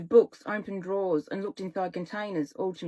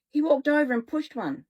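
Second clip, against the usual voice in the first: plain reading voice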